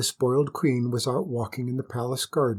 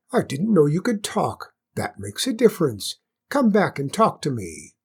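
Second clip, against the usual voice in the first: queen voice; 3 semitones higher than usual. Acted.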